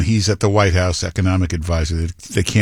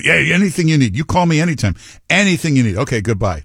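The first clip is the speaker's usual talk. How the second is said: mock Trump on phone; 7 semitones higher, faster than usual. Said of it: "very good at that when she's on the phone".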